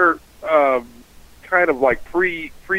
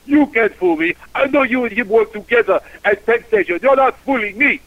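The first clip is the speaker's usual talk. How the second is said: raised-pitch mock accusation; aggressive; 6 semitones higher than usual. French passenger accusing the driver of a scam, aggressive. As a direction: act out a passenger getting aggressive. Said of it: "Then he gets aggressive with me".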